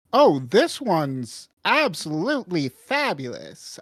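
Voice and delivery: shopkeeper with big swooping pitch; Rocky. Acted. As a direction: gush over the wares in a lilting character voice. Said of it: "Rocky turns looking over at it".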